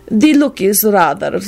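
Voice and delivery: slow and silky; smooth. A narrator's reading. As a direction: glide over it smoothly. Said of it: "Radu replied smoothly".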